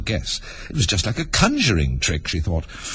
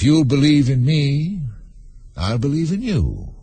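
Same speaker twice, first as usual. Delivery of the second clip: slow, slightly raised creature voice; lightly voiced, drawling storybook unicorn; bargaining unicorn; 7 semitones higher, slower than usual. A narrator's reading. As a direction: offer the deal slowly and deliberately.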